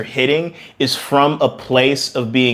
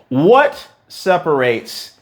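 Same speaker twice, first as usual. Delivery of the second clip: whisper; 3 semitones higher, much slower than usual. Real, not acted. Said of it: "dramatic whisper".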